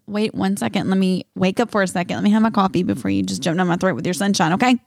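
mock weary rebuff. To cheerful people before coffee, weary rebuff. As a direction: fend off a morning person.

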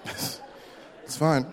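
breathy whisper to yourself; whispered reassurance to himself about the savings; whispered aside. Pretend. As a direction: say it under your breath.

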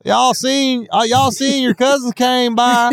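high, drawn-out honky-tonk twang; honky tonk accent. Pretend. Asking China about the visiting cousins, in honky tonk accent. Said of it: "say it in your honky tonk accent".

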